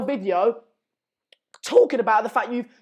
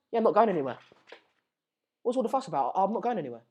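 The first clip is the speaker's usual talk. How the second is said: mock Griezmann; 3 semitones lower, 7 dB quieter, much faster than usual. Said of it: "All of this to say".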